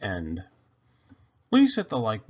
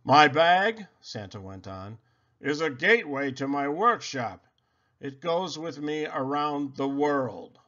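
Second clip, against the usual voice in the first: lightly voiced jolly Santa; a touch of Santa's booming cheer; 3 semitones higher than usual.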